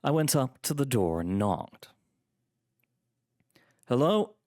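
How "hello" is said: high, put-on polite hello; faux politeness. A narrator's reading. Narrator greets whoever is behind the door, falsely polite. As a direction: feign politeness with a raised pitch. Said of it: "in a voice of faux politeness".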